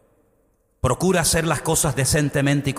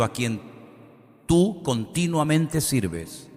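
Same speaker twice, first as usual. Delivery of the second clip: projected, measured Bible reading; Scripture reading; 4 semitones higher than usual. Acted. Preacher reading the story of King Darío to the congregation, solemn Scripture reading.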